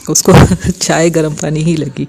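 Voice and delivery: laughing through the words. Real, not acted. Mother laughing as she tells the congregation about the tea. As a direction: breaks into a real laugh mid-line.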